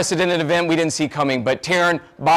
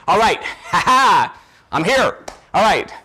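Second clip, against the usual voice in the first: laughing it off; 2 semitones higher than usual. Real, not acted. Laughing off being choked up.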